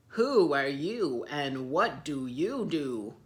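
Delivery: slow, loud, rude demand; rude elephants. Acted. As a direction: bark it at the stranger. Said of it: "not very nicely".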